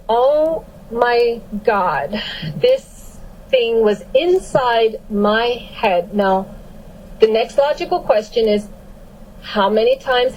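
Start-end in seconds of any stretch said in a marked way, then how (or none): 0.1-6.1 very slow, drawn-out dawning shock; stunned realization. Retold or imitated. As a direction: let the discovery sink in word by word. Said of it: "So I said".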